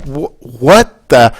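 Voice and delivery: slowed, disbelieving outburst at a friend who won't vote; exasperated retort. Retold or imitated. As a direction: stretch it out in disbelief at her. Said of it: "I'm like".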